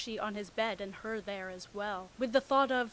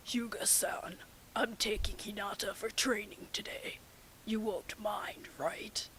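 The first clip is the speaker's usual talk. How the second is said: whisper; 5 dB quieter than usual. Acted. Whispered Kakashi quote.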